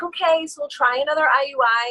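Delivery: a hint of a dismissive doctor; mock doctor. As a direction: lightly voice the doctor's breezy line. Doctor's line voiced in story.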